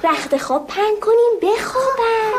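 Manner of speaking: giant's shout. Acted. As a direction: bellow orders like a hungry giant. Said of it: "داد زد".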